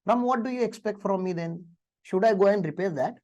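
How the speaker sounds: very slow, gentle boss question; lovingly asking. Retold or imitated. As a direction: ask it kindly, taking your time. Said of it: "sir ने बड़े ही प्यार से मुझे पूछा". (बहुत धीरे, प्यार से पूछना)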